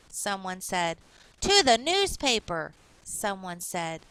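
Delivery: put-on clear, lively reading for children; story narration. A narrator's reading. Teacher reading a storybook aloud to kids. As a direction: read the picture book to young listeners.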